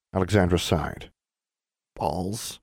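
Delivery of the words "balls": small voice. Acted. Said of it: "she said in a small voice".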